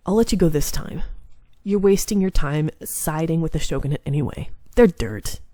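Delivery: lightly voiced arrogant demon demanding answers; a hint of a haughty clan head; cold demon lord. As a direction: demand it with icy pride. Kazuma sneers at heroine.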